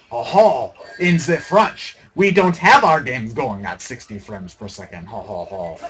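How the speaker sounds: mock French accent, sneering and low; hammed-up fake French, mocking; silly French accent. Gamer mocking the French about frame rates, in a silly French accent. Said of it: "doing a silly French accent".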